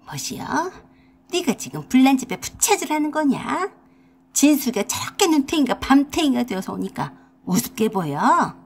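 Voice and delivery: a mother-in-law in dialect, scolding her daughter-in-law. Acted. Mother-in-law berates daughter-in-law for laughing, scolding dialect voice. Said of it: "쌍심지를 켜고 제게 달려들었습니다".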